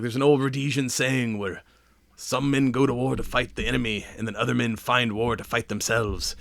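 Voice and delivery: attempted Rhodesian accent that slips into Irish; bad Rhodesian accent. Quoting an old saying as Wraith, bad Rhodesian accent. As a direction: lightly put on a poor Rhodesian accent, drifting Irish. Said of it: "I don't do a good Rhodesian accent".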